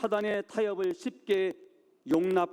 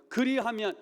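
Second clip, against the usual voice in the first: Pharaoh's offer; 7 semitones higher, 4 dB louder than usual. Acted. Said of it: "바로는 뭐라고 말해요?".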